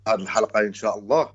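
loud, booming phone voice; loud phone caller. Real, not acted. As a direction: speak loudly into the phone.

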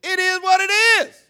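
very loud, high, quick mock Spanish; exaggerated Spanish inflection. Shown as a demonstration. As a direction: blurt it like a triumphant fake-Spanish translation. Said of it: "say 'em with enough infle".

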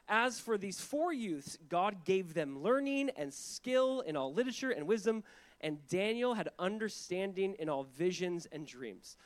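measured, emphatic Bible reading; scripture reading. Acted. Preacher reading the verses aloud to the church, measured and emphatic. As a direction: read it out deliberately, leaning on key words.

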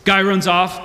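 ordinary talk

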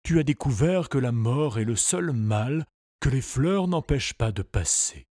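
lightly voiced wise old pony; talking pony. A narrator's reading. Pony speaks to Tistou.

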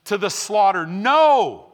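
impassioned pulpit declaration; fiery preaching. Real, not acted. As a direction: preach it with full conviction. Preaching at full force.

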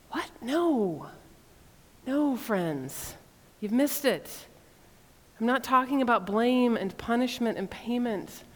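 gentle, sad and welcoming; God answering his people calmly and lovingly. Retold or imitated. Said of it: "in this calm and sad ... loving voice".

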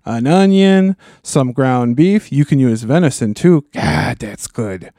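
hammed-up East Coast accent listing a recipe; lightly put-on East Coast accent; mock East Coast accent. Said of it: "East Coast accents in there".

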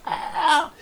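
high-pitched squeaked "ah"; choked-up squeal. Retold or imitated. Retelling a lovestruck anime girl's reaction, choked squeal. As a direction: mimic a strangled, overwhelmed little squeal. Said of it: "She's, like, choking on emotions".

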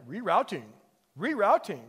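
imitation Scottish sat-nav; lightly hammed-up Scottish accent; Scottish GPS voice. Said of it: "a, a Scottish guy".

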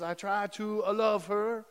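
drawn-out mock Italian accent; imitated Italian accent; Luigi's Italian accent. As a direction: play an Italian husband giving testimony. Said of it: "do my best Italian accent".

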